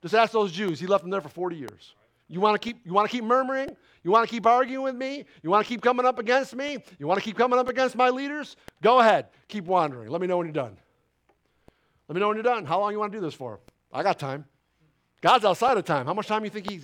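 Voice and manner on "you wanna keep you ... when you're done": fast, taunting string of questions; defiant challenge. Acted. Preacher voicing God daring grumblers, taunting. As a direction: dare them to keep grumbling.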